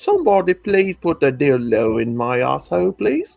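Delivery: put-on British accent. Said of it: "with a British accent".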